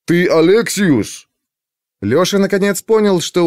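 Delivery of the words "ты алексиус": put-on slow nasal drone with Scythian accent; nasal guard droning a name; nerd voice. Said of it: "Голос повторил". (гнусавый голос со скифским акцентом)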